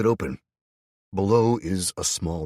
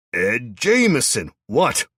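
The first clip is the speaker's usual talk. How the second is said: muffled; 7 semitones higher, 9 dB louder, slower than usual. A narrator's reading. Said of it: "his voice slightly muffled".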